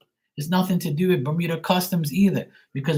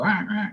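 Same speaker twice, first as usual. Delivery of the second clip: crow caw; 6 semitones higher than usual. Retold or imitated. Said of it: "he heard a crow go".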